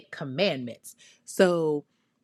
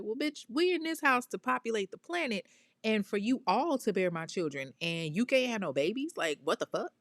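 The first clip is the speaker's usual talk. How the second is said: higher-pitched imitation of an indignant man; mock outrage, pitched up from usual talk; displeased; 6 semitones higher than usual. Husband scolding wife who cannot bear children, mock-indignant. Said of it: "he ain't too happy about this".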